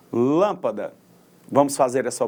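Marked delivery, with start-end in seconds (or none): 0.1-0.9 lâmpada with the force on LÂM; stress on first syllable. Shown as a demonstration. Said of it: "com maior intensidade, com mais força". (lâmpada com força na primeira sílaba, LÂM)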